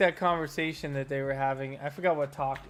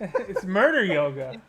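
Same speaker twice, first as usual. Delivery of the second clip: laughing; 3 semitones higher, 4 dB louder, slower than usual. Real, not acted.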